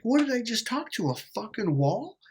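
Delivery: high-pitched incredulous questions; exasperated. Retold or imitated. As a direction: vent in disbelief, pitch jumping up. Exasperated at not being heard.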